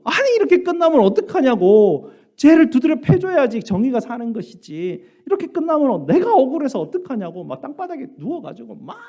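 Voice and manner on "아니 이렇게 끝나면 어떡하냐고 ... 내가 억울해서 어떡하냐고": high, loud tantrum protest; a kid throwing a fit at the unfair ending; whining child's outraged complaint; angry child. Retold or imitated. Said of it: "화가 나가지고".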